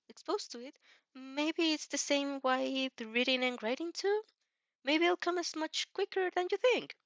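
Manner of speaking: put-on bright, helpful young hero showing off; Izuku voice. Izuku suggesting she write.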